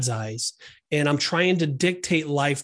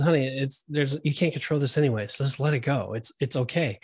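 softer, calm reassurance; calm and soothing; 4 dB quieter than usual. Retold or imitated. Wife calmly soothing her impatient husband at boarding, softer and reassuring. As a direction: gently talk him down, let it go. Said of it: "my wife looks at me very calmly and says".

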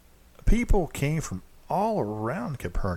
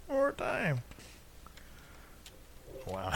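laughing at blooper; 13 semitones higher, 4 dB quieter than usual. Real, not acted. Blooper giggling.

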